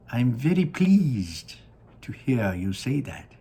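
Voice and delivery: put-on high, slow, delighted old showman; Willy Wonka voice. Wonka gazing down at his factory, high and delighted. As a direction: sing it out like a proud candy maker.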